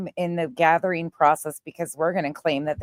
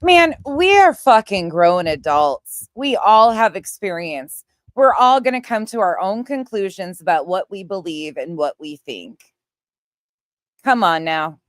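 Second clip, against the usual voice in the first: angry shout; 6 dB louder than usual. Real, not acted. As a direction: yell it out, fed up and furious. Angry rant at adults.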